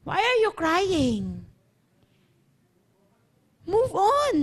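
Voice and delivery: slow, drawn-out divine reply; deliberate repeated command. Acted. Repeats the Lord's reply slowly. (mabagal at madiing utos ng Lord)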